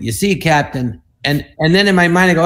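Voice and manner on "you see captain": dry deadpan delivery of the line; quoting own line. Retold or imitated. Comedian showing the boss how he said it, deadpan. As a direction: say it flat, not trying to be funny. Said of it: "I went".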